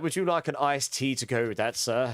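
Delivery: lightly imitated posh waiter; a touch of posh service voice. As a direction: politely mimic a posh server. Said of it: "They were so posh".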